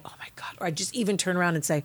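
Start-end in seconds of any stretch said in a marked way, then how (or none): 0.0-0.5 whispered dismay. Retold or imitated. Actor whispering to herself after leaving the stage. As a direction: breathe it out in a whisper. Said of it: "I'd go".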